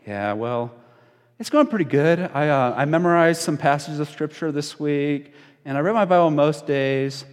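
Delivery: lightly voiced self-satisfied group member; hesitant start, then livelier progress report; Zachary. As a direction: report to the group leader that it's going fine. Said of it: "my friend Zachary over here, he'd be like".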